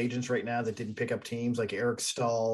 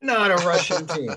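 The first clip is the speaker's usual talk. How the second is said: louder and higher, hammering it home; emphatic; 7 semitones higher, 8 dB louder than usual. Real, not acted. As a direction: insist on it, punching NOT. Repeating the point with emphasis.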